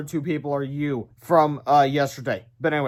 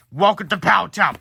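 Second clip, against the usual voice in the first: villain greeting; 3 semitones higher, 5 dB louder than usual. Acted. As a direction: announce yourself like a cartoon villain. Villain announcing himself.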